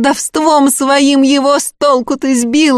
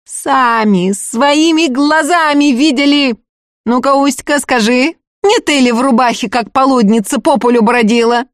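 shouting over; 5 semitones higher than usual. Acted. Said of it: "перекрикивая Агафью".

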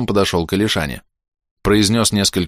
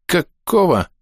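startled exclamation; 10 semitones higher, slower than usual. A narrator's reading. Surprised voice in the wardrobe.

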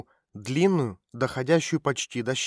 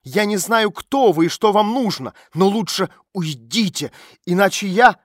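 higher, louder threat; angry warning; 5 semitones higher, 7 dB louder than usual. A narrator's reading. Girl threatens the stranger to leave, higher and louder. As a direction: warn her off angrily.

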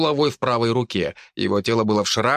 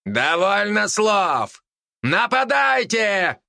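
higher, slow furious battle roar; roaring demon; 9 semitones higher, much slower than usual. A narrator's reading. Demon lord ordering the attack, roaring. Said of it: "прорычал демон".

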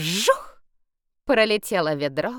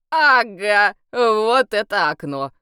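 excited; 3 semitones higher, 8 dB louder, slower than usual. A narrator's reading. Vampire finds the window.

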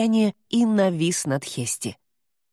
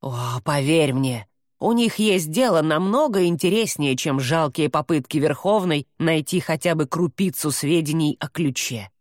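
irritated growling demon. Acted. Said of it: "Рычащий голос демона показался ей раздражённым".

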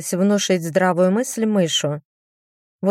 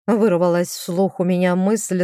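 ordinary delivery

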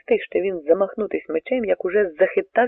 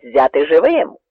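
command; 6 dB louder than usual. A narrator's reading. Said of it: "наказав старий гетьман".

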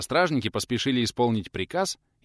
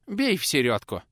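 command; 6 semitones higher, 3 dB louder than usual. Acted. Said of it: "скомандовал старик".

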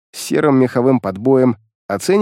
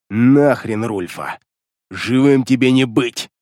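contained shout; 3 semitones lower, slower than usual. Acted. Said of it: "процедил сквозь зубы зверь".

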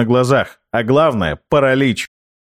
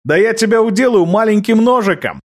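higher, cocky taunting jeer; 9 semitones higher than usual. A narrator's reading. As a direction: goad the warrior on. Loki taunts the warrior.

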